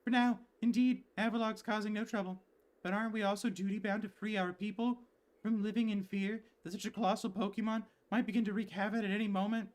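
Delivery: a hint of a dutiful young guard arguing; voiced game character.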